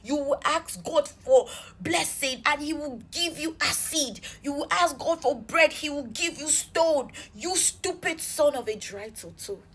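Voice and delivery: reenacted angry malediction; retold curse note. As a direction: pronounce each curse on him like a verdict. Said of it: "send him a very terrible long note".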